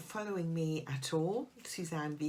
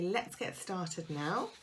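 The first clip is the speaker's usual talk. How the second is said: announcing start; slower than usual. Shown as a demonstration. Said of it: "I'm going to say".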